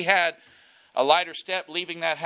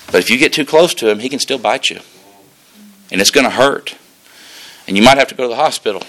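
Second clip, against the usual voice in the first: louder preacher's voice, low and pressing; full-force preaching; 3 semitones lower, 8 dB louder than usual. Acted. Pastor urging his church about the serpent foe, loud preaching. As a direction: drive the lesson home to the congregation.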